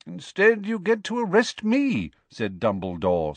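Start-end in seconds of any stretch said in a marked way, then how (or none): 0.1-2.1 high, smiling interjection. A narrator's reading. Headmaster completing the minister's thought, smiling. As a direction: finish his sentence with an amused smile.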